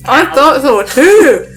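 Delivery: reading through laughter; giggling out the line; laughing. Real, not acted.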